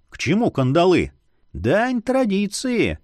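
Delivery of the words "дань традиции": slow, lifted, musing delivery; unhurried wise remark; philosophical. Acted. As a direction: say it like an idle philosopher. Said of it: "философски изрёк".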